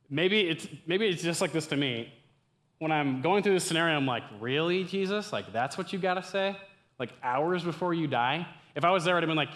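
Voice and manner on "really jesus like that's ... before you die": higher, incredulous mock challenge. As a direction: question it in playful disbelief. Skeptical reaction to Jesus acted.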